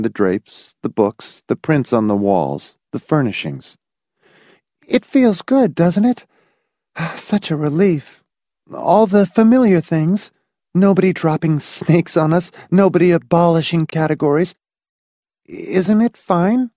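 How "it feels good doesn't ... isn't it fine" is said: high-pitched woman's voice, seeking agreement; anxiously relieved wife. Acted. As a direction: talk yourself into relief, voice high.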